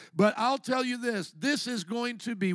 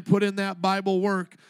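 call and response; 4 dB louder than usual. Shown as a demonstration. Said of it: "look at your neighbor and say".

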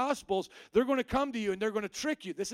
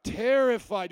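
loud call-and-response; 8 dB louder, slower than usual. Shown as a demonstration. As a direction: call out terrified loudly with the crowd. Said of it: "Say that word".

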